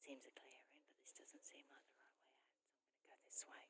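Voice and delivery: very soft, hushed half-whisper; whispering a bit. Real, not acted. Finding a way through branches, whispering a bit. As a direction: keep your voice right down, barely audible. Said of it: "I've been whispering a bit".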